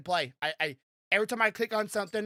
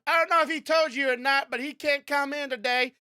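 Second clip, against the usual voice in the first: imitating coworker; 8 semitones higher, 5 dB louder than usual. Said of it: "Stuff to gone".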